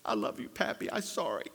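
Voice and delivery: soft imitation of a sleepy little girl; hushed, childlike apology; small sorry child. Granddaughter waking in her mother's arms to Pappy, softly sorry. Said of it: "She looks at me and she goes".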